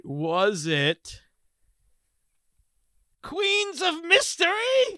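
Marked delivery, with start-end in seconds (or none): 3.2-5.0 high, drawn-out mock British; hammed-up British accent for a show title. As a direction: put on a slow, high-pitched British accent. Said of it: "can't say these words without British accent".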